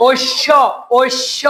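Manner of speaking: ঐশ্য said as "oish-sho" with the final o held; teacher's careful demo of the o ending in ঐশ্য; sounding out syllables. Shown as a demonstration. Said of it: "তুমি উচ্চারণ করে দেখো".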